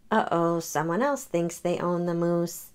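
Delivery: gentle read-aloud storytelling; story narration. A narrator's reading. Karen reading a picture book to children, gentle. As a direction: read it like bedtime for kids.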